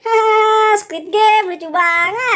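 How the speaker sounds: laughing mockingly. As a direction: laugh at his failure. Mocking his failure. (tertawa mengejek)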